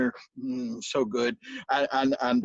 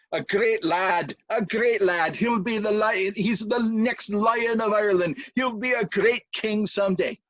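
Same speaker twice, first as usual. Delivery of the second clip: proud father; 5 semitones higher than usual. Acted. King boasts about his son.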